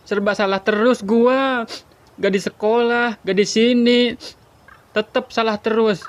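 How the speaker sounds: mengeluh dengan suara tinggi yang dibuat-buat; merengek lebay. Acted. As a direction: merajuk berlebihan. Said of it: "Lebay lu". (rengekan lebay yang dibuat-buat)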